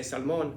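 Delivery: SALMON as "sal-MOAN", long O; mispronounced salmon. Shown as a demonstration. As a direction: stretch the end of SALMON to "moan". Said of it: "you're saying it wrong".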